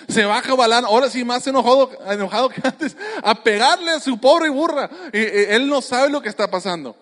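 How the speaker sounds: chuckling through the words; laughing. Real, not acted. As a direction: laugh while you tell it. Laughing while telling the beating.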